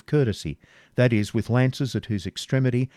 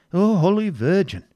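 high, loud pious exclamation; horrified prior; 9 semitones higher, 5 dB louder than usual. A narrator's reading. Prior answers the prince's choice of Rebecca, horrified. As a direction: cry out, scandalised to the core. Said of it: "turning up his eyes in horror".

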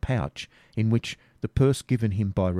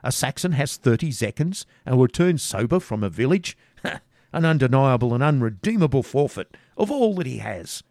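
higher, laughing scorn; mocking robbers; 5 semitones higher, 4 dB louder than usual. Robbers jeer at Garth's coins, higher and laughing. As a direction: laugh at the sober Saxon.

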